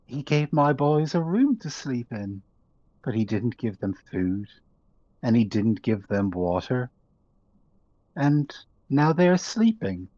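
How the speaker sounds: a lightly voiced broken mother, fading out; rising to insist on safety, then dying away; grieving mother. Mother telling the prisoners how Caesar starved her sons, lightly voiced.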